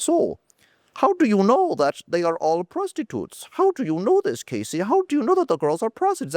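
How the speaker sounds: put-on high-pitched, untraditional German accent; Paul's German accent. Dorky German friend questioning the speaker, high mock German accent. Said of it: "it's, like, a different German accent".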